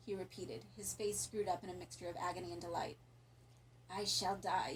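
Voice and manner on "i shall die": forced out through clenched teeth; pained, teeth clenched; through gritted teeth. Acted. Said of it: "through gritted teeth".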